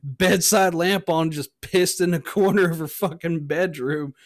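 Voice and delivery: a hint of the cartoon rambler; Boomhauer. Friend confessing the bedroom mishap, loose drawling imitation. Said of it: "on some Boomhauer shit".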